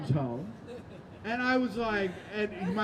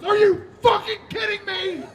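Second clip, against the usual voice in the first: high, loud shout of outrage; mom's angry outburst; 10 semitones higher, 6 dB louder than usual. Retold or imitated. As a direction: explode in a high-pitched mock-mom yell. Mom explodes, throws dinner on ground.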